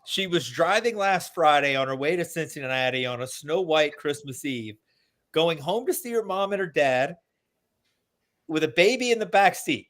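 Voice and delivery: reading song lyrics aloud, deadpan. Real, not acted. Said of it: "I'll read them to you".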